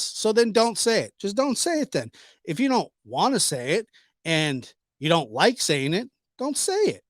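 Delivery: high, exasperated retort. Real, not acted. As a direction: snap back in disbelief.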